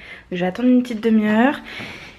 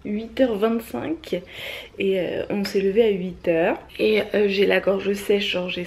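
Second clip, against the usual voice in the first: just woke up, dry throaty voice; morning voice. Real, not acted. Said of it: "avec ma voix du matin".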